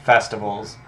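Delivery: a mildly bored, offhand townsfolk reply; uninterested. Acted. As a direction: shrug it off as if it's nothing special. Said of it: "play up that they're uninterested".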